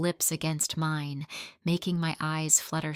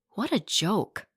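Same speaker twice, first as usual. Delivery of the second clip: scoff; 2 semitones higher than usual. Acted. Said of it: "I scoffed".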